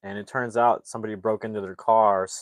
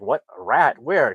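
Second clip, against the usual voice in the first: higher, louder mock surprise; startled question; 3 semitones higher, 6 dB louder than usual. Local man hears about the rat on his shoulder, startled. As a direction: act out sudden confusion.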